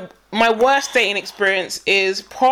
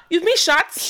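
higher put-on African accent, open vowel; imitated African accent; 6 semitones higher, slower than usual. Querying the word shirts, imitated African accent. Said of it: "'Cause shirts is now shirts".

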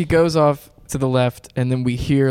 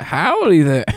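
cowboy howdy; 4 semitones higher, 5 dB louder, slower than usual. Pretend. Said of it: "comes on with a cowboy hat".

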